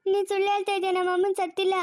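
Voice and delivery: sobbing out the words in disbelief; crying. Acted. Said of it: "ಅಳ್ಬೇಡ, ಸುಮ್ನೆ ಇರು". (ಅಳುತ್ತಾ, ನಂಬಲಾಗದೆ ಬೇಡಿಕೊಳ್ಳುವ ಧ್ವನಿ)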